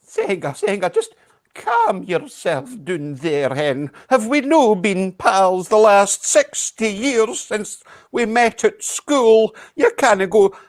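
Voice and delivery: put-on coaxing old Scottish lady; calm her down, hen; Scottish granny. Soothing granny, Scottish words.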